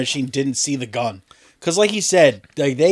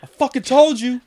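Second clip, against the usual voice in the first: high mocking voice; 9 semitones higher than usual. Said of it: "It's like".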